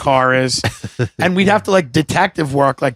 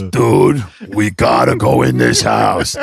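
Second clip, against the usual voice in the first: very low, urgent imitation of a friend; Brian Half; 8 semitones lower, slower than usual. Friend urges him into the house, deep impression. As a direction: drop way down and push it out like the buddy. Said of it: "he talks like this".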